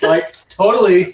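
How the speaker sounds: put-on drawn-out Valley Girl talk. Mimicking Brits doing American accents, Valley Girl. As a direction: stretch it slowly like a California Valley Girl. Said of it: "Valley Girl, California".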